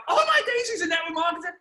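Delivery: very high-pitched mock shout; imitating dad's random shout; shouted outburst. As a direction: yell it out of nowhere. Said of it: "he just shouted out".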